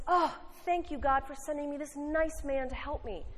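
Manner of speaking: high, lightly voiced grateful old lady. Preacher telling a joke to the congregation, high grateful lady voice. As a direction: gush your thanks up high like a sweet churchgoing lady.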